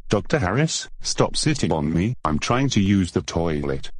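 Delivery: sing-song parroting, rising on the name; mocking copycat voice. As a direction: echo it back teasingly. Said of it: "you copying me".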